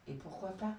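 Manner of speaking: timid little tortoise voice; small voice. Acted. Tortoise asks the goat timidly, small soft voice. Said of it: "d'une petite voix".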